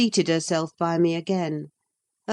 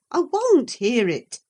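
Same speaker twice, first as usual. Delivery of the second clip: a little less loud, insisting; repeated hasty refusal; 6 semitones higher, 4 dB louder than usual. Acted. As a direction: repeat the refusal more firmly. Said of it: "I repeated hastily".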